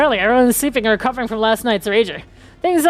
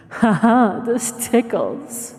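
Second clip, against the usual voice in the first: laughing; much slower than usual. Acted. Reads a line while laughing.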